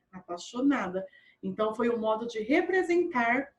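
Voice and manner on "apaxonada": "apaixonada" said as "apaxonada", without the I; caipira pronunciation. Shown as a demonstration. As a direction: drop the glide in "apaixonada", countryside style. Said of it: "do jeito caipira". ("apaixonada" do jeito caipira, sem o I)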